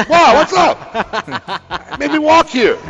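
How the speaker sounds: high, stretched-out mock monkey voice through laughter; laughing high monkey impression; monkey at the door. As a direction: squeak it out like a pet monkey come home. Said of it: "knocking on his door like".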